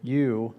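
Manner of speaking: "you" said slowly, as in feud; diphthong sound. Shown as a demonstration. Teacher modelling epsilon upsilon for the class, slow. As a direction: stretch "you" like the vowel in feud. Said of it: "Epsilon upsilon sound like".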